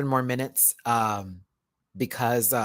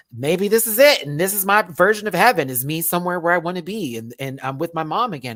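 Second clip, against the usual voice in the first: awed joy; 4 semitones higher, 7 dB louder than usual. Retold or imitated. Dream, reunited with late mom.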